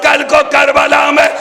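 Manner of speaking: high, loud wailing cry, slowing into chant. Acted. Zainab cries out to her sister-in-law, loud wailing chant. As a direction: cry out in grief, half sung. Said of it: "Zainab ने चिल्ला के कहा".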